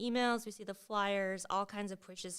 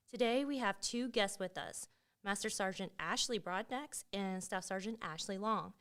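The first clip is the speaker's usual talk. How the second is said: smooth podcast host intro; polished announcer read; radio voice. Acted. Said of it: "It's my radio voice".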